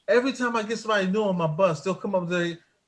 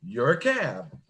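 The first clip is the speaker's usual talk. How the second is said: laughing; 6 semitones lower, slower than usual. Real, not acted. Retelling the punchline laughing.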